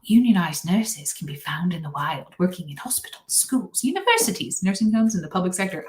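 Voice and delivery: badly faked British wildlife narrator; terrible David Attenborough. Nurse reads a union list as nature film, hammed-up narrator. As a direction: attempt an old English documentary voice, lightly put on. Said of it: "I did it really terribly".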